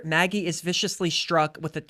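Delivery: accidentally sultry delivery; breathy sultry read; sexy voice. Real, not acted. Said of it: "I said that in, like, a sexy way".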